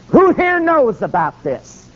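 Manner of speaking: high, slow, drawn-out call; God's summons. Retold or imitated. Preacher quoting God at judgment, solemn high call. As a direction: call out a question to everyone assembled.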